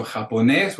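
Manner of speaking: Japonés with the weight on final NÉS; ja-po-NÉS, accented final é; stress on last syllable. Shown as a demonstration. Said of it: "with an accent".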